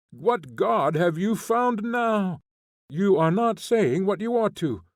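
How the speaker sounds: a convict snapping at the prince who came to save her; angry retort. A narrator's reading. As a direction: throw it back at him, indignant. Maslova flares at Nekhlyudov.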